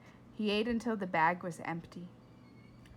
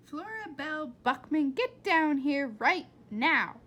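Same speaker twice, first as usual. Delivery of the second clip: angry yell; 5 semitones higher, 8 dB louder than usual. Acted. Mother calling Flora from downstairs, angry yell. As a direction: call her down like you mean it.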